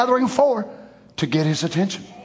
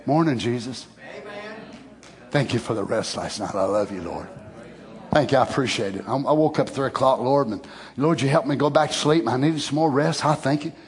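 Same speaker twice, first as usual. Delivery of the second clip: soft, low, unhurried talk to Jesus; casual morning prayer; 7 semitones lower, 4 dB quieter than usual. Acted. Preacher greeting Jesus on waking, soft casual prayer. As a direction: chat quietly with the Lord like a best friend. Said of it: "you talked to him just like that".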